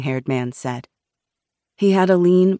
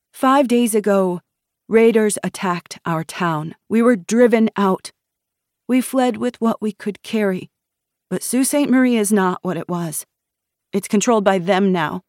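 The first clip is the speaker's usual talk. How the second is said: higher-pitched, lightly voiced young woman; distressed refugee woman; 6 semitones higher, 4 dB louder than usual. A narrator's reading. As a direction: recount the attack to armed strangers. Refugee woman recounts raid.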